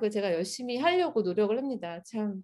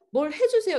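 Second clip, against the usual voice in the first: pleading prayer; 9 semitones higher, 5 dB louder than usual. Retold or imitated. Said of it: "이렇게".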